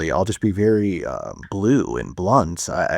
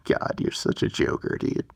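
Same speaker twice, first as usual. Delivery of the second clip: real breathless laugh, words nearly voiceless; laughing at himself. Real, not acted. Telling God he's a joker, laughing at himself. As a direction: laugh helplessly through the words. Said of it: "I'm laughing at myself".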